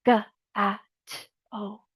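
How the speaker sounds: G, A, T, O as separate sounds, fading; sounding out letters. Shown as a demonstration. Teacher sounding out gato for learners, deliberate. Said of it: "the G makes the G sound".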